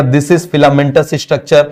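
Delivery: slow, word-by-word note dictation; slow classroom dictation. Shown as a demonstration. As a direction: spell it out slowly so students can write. Dictating a definition.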